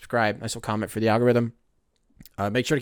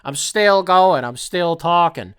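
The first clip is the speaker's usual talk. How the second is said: louder, called out so she hears from the other room; calling out louder; 4 semitones higher, 4 dB louder, slower than usual. Real, not acted. Calling out to girlfriend in another room, louder. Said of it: "I don't know if she's gonna be able to hear me".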